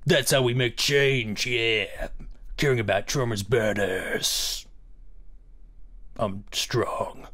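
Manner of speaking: a hint of a bragging strongman bellow; strong man voice. Shown as a demonstration. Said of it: "my very convincing strong man voice".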